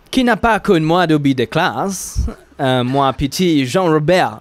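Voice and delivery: mock British accent on French words, breaking into a laugh; a light, hammed-up British accent. Host tries the phrase in a British accent game. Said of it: "Accent british".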